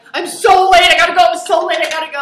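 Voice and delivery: put-on very loud, high, tearful near-sobbing crying babble. Retelling rushing out with a crying kid, imitating her own crying. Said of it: "like crying".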